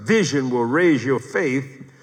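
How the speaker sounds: slow, measured dictation; deliberate phrasing with stretched words and pauses; dictating. Real, not acted. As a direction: spell out the point slowly for note-takers. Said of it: "Write this down".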